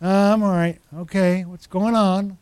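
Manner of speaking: lightly put-on Maine accent. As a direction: imitate a laid-back Maine greeting. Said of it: "his little Maine accent".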